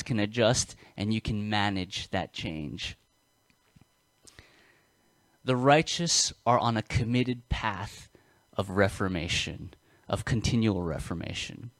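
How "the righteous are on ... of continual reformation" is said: talking with braces. Real, not acted. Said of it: "I'm saying this with braces in my mouth".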